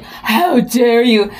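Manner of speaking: slow, drawn-out mock offended husband; husband's mock outrage. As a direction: drag it out like a pretend-offended man. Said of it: "And he's like".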